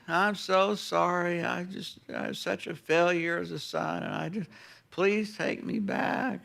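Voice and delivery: slow, soft, mopey self-pity; mopey apology. Retold or imitated. Son rehearsing his apology to dad, mopey and slow. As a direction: drag it out like a defeated son. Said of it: "full of mopey, grumpy".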